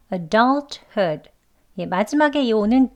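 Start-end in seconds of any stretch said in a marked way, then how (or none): 0.1-1.3 adulthood drawn out syllable by syllable; slow. Shown as a demonstration. Teacher modelling the word slowly for learners. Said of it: "한 번 더요".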